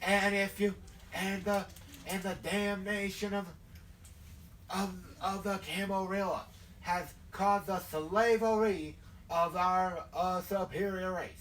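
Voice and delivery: halting southern fire-and-brimstone sermon; southern hellfire preacher. Acted. Southern creature denouncing his oppressors, hellfire preaching. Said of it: "like, the hellfire and brimstone thing".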